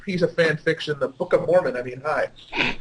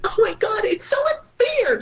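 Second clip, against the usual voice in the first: high, whiny mock complaint; mocking a pouty vampire; 12 semitones higher than usual. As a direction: squeal it like a sulking teen. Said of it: "It's like".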